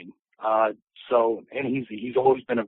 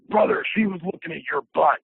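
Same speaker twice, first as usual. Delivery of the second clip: higher, lightly hammed-up wrestler voice; a hint of big-wrestler delivery; Hulk Hogan; 4 semitones higher than usual. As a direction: imitate a wrestling star confiding something. Hulk Hogan's remark, retold.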